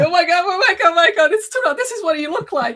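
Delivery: acted-out high, loud shout. Recalling first seeing the alpha disc, the speaker retells past shouting. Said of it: "I was shouting like".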